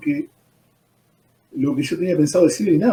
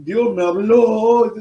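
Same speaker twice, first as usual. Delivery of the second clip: slow, higher, drawn-out mock of a boastful believer; mocking quote; 4 semitones higher, much slower than usual. Preacher mocking believers who claim God spoke, slow and sceptical. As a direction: stretch it out as if doubting the claim. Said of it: "Por eso yo cuando me dicen".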